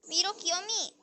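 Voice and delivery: breathy cutesy call; cutesy squeal. Pretend. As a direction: squeal it like a cute kid. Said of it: "미로 귀요미 하니까 바로 열리네?".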